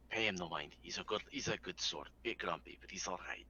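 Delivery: a hint of a soothing character voice; easygoing adventurer. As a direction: softly reassure a companion in character. Plays character soothing the animal.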